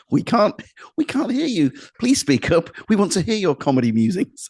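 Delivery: high-pitched heckler's call; imitated crowd shout. Misheard audience member asks act to speak up, mock shouting. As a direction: call up to the stage, high and urgent. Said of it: "thought the guy was, was shouting".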